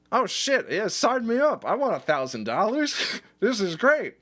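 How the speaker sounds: giddy, high and loud about the money; young guy thrilled at a thousand dollars; excited. Retold or imitated. Young guy hearing the offer, giddy high excitement.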